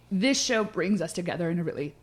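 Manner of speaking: choking on an almond mid-sentence; choking on food. Real, not acted. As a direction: talk while choking on an almond. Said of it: "Sorry, I'm choking on an almond".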